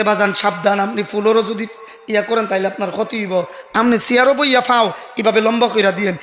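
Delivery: cautioning doctor. Retold or imitated. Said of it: "আর কইছে".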